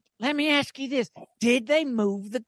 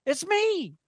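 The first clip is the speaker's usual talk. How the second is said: Harry Caray impression; 4 semitones higher than usual. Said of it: "Harry Carey".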